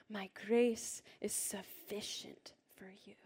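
slow, with "sufficient" stretched and emphasized; stress on sufficient. Shown as a demonstration. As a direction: lean into "sufficient", leading a room reading aloud. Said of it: "This last word, sufficient".

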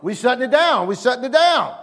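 mock body voice. Preacher voicing a body shutting down while driving, playful. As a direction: voice the lazy body giving up. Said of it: "your body trying to shut down".

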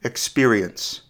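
slow, each syllable drawn out; a drawn-out sample word for listeners to time; slow demo word. Shown as a demonstration. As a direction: say it slowly so every syllable is heard. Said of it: "Listen to the following word".

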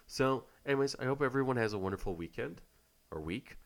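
stuffy nasal voice from a cold. Real, not acted. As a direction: talk through a blocked nose. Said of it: "my nasally voice".

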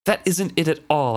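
snarl. A narrator's reading. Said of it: "I snarled at the".

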